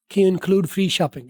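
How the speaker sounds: very slow, careful Can you include free shopping; slow teacher read; slow model sentence. Shown as a demonstration. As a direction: stretch each word for learners. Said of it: "इसको कहते हैं फ्री शॉपिंग".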